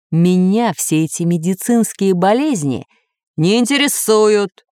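a touch of a snap, slowed at the end; mild bark. Acted. Master snapping at the computer, mild and slowed. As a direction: cut him off sharply. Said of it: "рявкнул повелитель".

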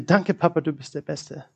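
gently retold thanks, dropping very soft; deeply grateful. Retelling his daughter's thanks to Papa, quietly grateful. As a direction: let the thanks sink to a hush. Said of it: "in einer zutiefsten Dankbarkeit".

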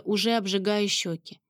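usual speaking voice

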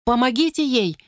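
high urgent shout; shout from the crowd. Acted. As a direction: call out from the crowd for help. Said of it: "крикнули в толпе".

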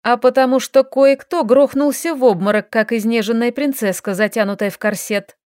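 mocking him, loud at first; mocking scold. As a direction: scoff at his weakness. Scolding the fainted elf.

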